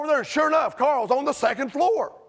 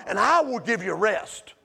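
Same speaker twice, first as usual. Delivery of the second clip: lower, steady "And I will give you rest"; quoted promise; 4 semitones lower than usual. Acted. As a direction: say it as a calm promise.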